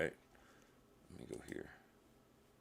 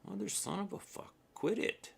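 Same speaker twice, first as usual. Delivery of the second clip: an angry curse at the computer, pitch shifted way up; swearing at a glitch in a high, echoing effected voice; 12 semitones higher, 4 dB louder than usual. Real, not acted. Cursing the software, effects on.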